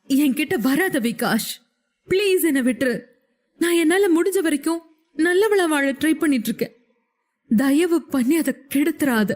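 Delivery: put-on a woman begs the drunk man to go, half-cried; pleading cry. A narrator's reading. Woman pushing away a drunk friend, mild pleading cry. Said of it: "என்று கத்தினாள் ஸ்ருதி".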